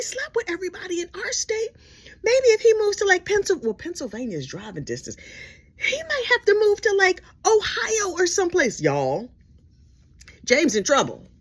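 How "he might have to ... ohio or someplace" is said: high, crying-laughing shout; exasperated wail. Real, not acted. Comedian wailing that James must move away. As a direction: wail it in comic despair.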